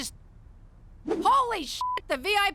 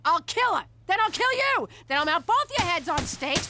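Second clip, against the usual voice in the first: jealous threat. Acted. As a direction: hurl the threats at him, jealous. Jealous wife threatening over flowers.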